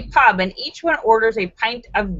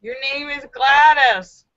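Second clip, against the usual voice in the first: slow teacher correction; 5 semitones higher, 3 dB louder than usual. Acted.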